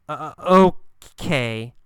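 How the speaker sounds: halting uh uh then okay; unsure, stop-start okay; hesitant. Shown as a demonstration. Teacher showing how a student hesitates.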